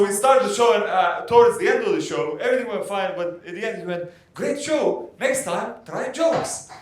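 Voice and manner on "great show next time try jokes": high-pitched heckling quote; mock backhanded praise. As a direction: imitate a high-pitched verdict on the act. Prince heckles comedian after show.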